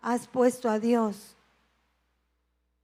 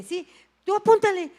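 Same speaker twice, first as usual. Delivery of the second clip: higher and louder quick command; brisk order; 8 semitones higher, 5 dB louder than usual. Retold or imitated. Nurse ordering her colleague, higher and louder. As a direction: tell your colleague to write it down.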